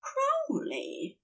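high, slow, breathless wonder; awestruck. A narrator's reading. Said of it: "sounding awestruck".

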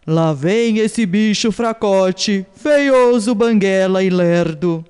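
mocking taunt. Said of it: "o jacaré dizia".

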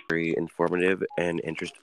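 hiccuping mid-word; with hiccups. Real, not acted. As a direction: talk through hiccups. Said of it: "Excuse me, I have hiccups".

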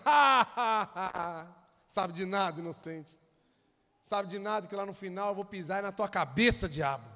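a taunting laugh that mocks the devil; mocking laugh. Jesus mocking the devil's plans with a taunting laugh. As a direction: laugh him off, then taunt. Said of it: "Jesus olha pros planos e fala assim".

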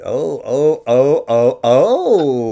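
loud, rising ecstatic oh's; excited oh's. Real, not acted. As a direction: swoon over the memory.

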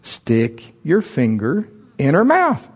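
slow voice of God. Retold or imitated. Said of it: "he said it again".

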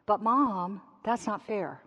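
a light hint of a child whining to Mom; whiny child. Child complaining to Mom at home, lightly whining. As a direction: whine it like your kid does. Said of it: "In my house, it sounds like this".

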